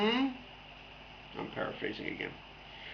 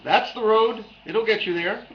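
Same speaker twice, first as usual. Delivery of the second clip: Cheshire Cat; 7 semitones higher, 6 dB louder than usual. Acted.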